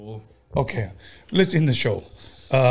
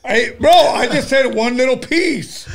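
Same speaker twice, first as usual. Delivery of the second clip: laughing; 7 semitones higher, 4 dB louder, slower than usual. Real, not acted. Host pleading laughing.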